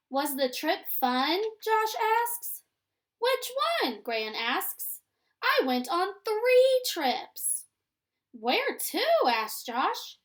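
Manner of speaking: lively storybook reading with character lines lifted; reading to children. A narrator's reading. Teacher reading a story to her class, lively and clear. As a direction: read it aloud like a picture book for young kids.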